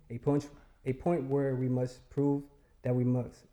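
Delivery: nervous, faltering recital; losing the thread from nerves; stage fright. Real, not acted. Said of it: "I'm a little nervous".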